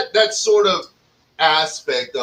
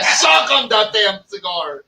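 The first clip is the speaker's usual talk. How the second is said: imitating a pushy guy; 6 semitones higher, slower than usual. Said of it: "he like".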